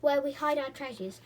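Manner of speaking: high, loud scheming gnome; greedy gnome. A narrator's reading. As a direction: hurry off with loot. Gnome speaks.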